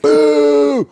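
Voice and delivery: loud, high, held boo; relentless booing. Retold or imitated. Heckler booing the comic relentlessly, loud high boo. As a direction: boo with full volume. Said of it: "Booing the shit out of me".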